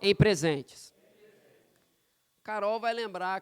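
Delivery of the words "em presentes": loud, slow line for repeating; congregational call to repeat. Real, not acted. Preacher asks the congregation to repeat after him, emphatic call. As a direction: lead them word by word, with a pause before the end. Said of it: "Repete comigo assim".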